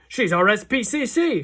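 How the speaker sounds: loud, high disbelieving cry; incredulous cry. A narrator's reading. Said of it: "cried Mister Jenkins".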